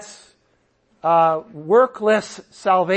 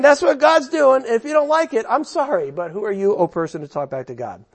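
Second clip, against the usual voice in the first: Paul, hard-talking; 2 semitones higher, faster than usual. Acted. Preacher as Paul rebuking objectors, unapologetic. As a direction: start insistent, finish with a brisk put-down. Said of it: "the tone has really changed".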